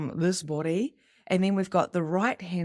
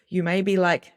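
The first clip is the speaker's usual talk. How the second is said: usual speaking voice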